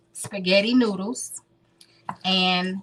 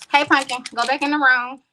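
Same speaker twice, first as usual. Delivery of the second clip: raised, higher voice to send someone off; calling out; 4 semitones higher, 5 dB louder than usual. Real, not acted. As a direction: call across the room with an instruction. Calls out to Pumpkin in the room.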